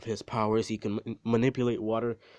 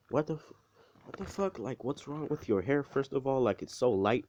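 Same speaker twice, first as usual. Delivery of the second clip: high, stunned what the fuck; shocked parents; 4 semitones higher than usual. Retold or imitated. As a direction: pitch way up in disbelief. Parents shocked at his hair.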